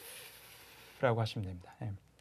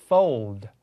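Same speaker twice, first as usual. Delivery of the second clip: American-accented Fold; 5 semitones lower, 5 dB louder than usual. Shown as a demonstration. Repeats American model before British one. (미국식 발음)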